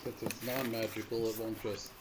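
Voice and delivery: fading, very quiet voice; trailing off almost out of hearing; voice dropping low. Real, not acted. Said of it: "Coming a little bit low there".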